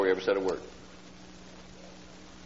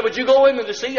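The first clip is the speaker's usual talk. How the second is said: eager hope; 7 dB louder than usual. Retold or imitated. Man hopes wife takes him back.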